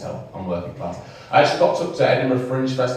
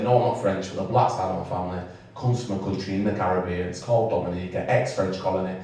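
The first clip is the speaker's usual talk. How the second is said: low, quiet, tired explanation; bored recital; 4 semitones lower, 5 dB quieter than usual. Retold or imitated. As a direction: recite it as a boring, over-repeated explanation. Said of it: "this really boring, like, conversation".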